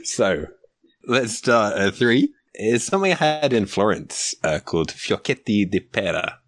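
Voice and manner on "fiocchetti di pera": fiocchetti di pera in an Italian accent. Shown as a demonstration. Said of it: "you just did an amazing Italian accent".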